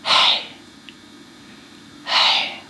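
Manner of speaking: mouthed, voiceless Hey; only breath shaping Hey; whispered Hey without voice; silent hey. Shown as a demonstration. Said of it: "Now say it silently".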